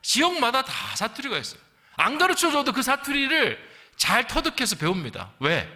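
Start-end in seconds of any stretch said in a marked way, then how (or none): none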